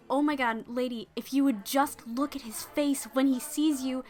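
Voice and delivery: earnest pleading. Acted. Maid gushes to her lady about the knight, eager and bright. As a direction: gush about how in love he is. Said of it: "Lunette turns around and says".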